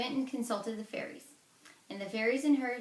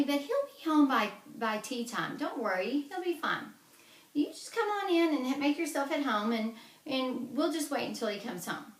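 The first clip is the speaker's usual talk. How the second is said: higher, louder sugary hostess voice; sweet false hostess; 5 semitones higher, 5 dB louder than usual. Acted. Una fooling the giant at her door, high and sugary. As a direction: play innocent and overly sweet to fool him.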